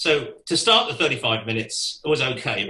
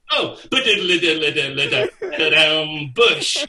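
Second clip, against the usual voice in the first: laughing scat; 5 dB louder than usual. Retold or imitated. Drummer scatting oblivious.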